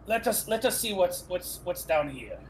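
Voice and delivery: mock Spanish accent; thick put-on Spanish accent. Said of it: "I know you're doing a Spanish accent".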